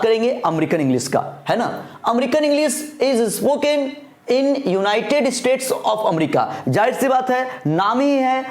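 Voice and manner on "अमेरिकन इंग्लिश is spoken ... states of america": slow dictation. Acted. Reads the note slowly.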